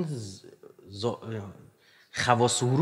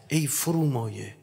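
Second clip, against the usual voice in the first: mock lofty insult; slower than usual. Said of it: "مثلاً بگم".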